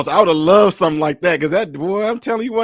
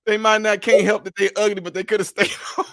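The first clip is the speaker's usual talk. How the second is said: Southern drawl; 3 semitones higher than usual. Retold or imitated.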